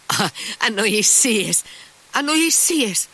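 high, emphatic brushing-off; exclaimed "nonsense", voice lifted; dismissive exclamation. A narrator's reading. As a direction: wave away the suggestion, pitched high. Mitya dismisses the clerk's suspicion.

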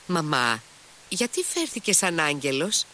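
a hint of a little girl piping up; Lise's little voice. A narrator's reading. Girl asking her mother about the angel, little voice. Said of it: "ακούστηκε και πάλι η φωνούλα της Λις".

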